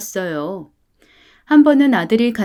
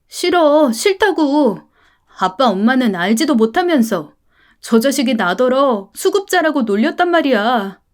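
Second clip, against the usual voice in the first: high, tearful cry of protest; upset protesting boy; 3 semitones higher than usual. Acted. Son crying out to his parents that he was mocked. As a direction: burst out like a hurt child.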